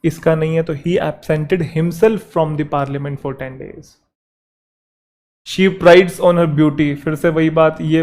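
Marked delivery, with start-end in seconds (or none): 0.8-3.9 very slow, each word drawn out; slow dictation. Shown as a demonstration. Teacher slowly dictating the corrected sentence. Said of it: "dictating corrected sentence". 5.5-7.0 very slow, word by word; slow dictation. Shown as a demonstration. Teacher dictating the next example sentence. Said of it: "dictating example sentence".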